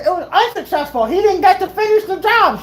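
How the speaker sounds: high, half-laughing UNSUCCESSFUL with lax lips; numb mouth. Retold or imitated. Patient to mom, numb-mouthed mock outrage. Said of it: "with, like, a numb freaking mouth".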